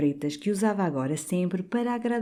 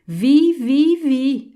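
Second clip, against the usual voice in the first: much higher and louder furious shout; 11 semitones higher, 8 dB louder, much slower than usual. A narrator's reading. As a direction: hurl it back in fury. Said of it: "afirmou o outro com furor". (grito furioso, muito alto e agudo)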